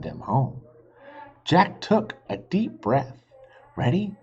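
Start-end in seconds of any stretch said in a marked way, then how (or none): 3.8-4.2 psyching up. A narrator's reading. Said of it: "he thought".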